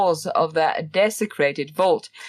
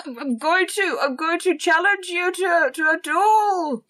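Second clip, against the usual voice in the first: gruff space marine; 9 semitones higher than usual. Retold or imitated. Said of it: "That sounds something very, um, Space Marine-like".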